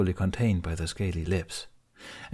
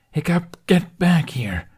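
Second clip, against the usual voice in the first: loud, higher, slow bark of a command; barked order; 10 semitones higher, 7 dB louder, slower than usual. A narrator's reading. Toothless orders Hiccup away from the serpent, loud barked command. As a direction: bark it at him to come back. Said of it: "Toothless barked".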